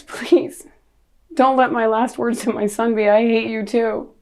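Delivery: pleading. Retold or imitated. Mother silently begging over her dying son, pleading.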